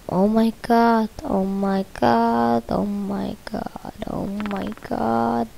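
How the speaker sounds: slow, soft awed oh my god; awed hush. Real, not acted. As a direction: breathe it out in awe.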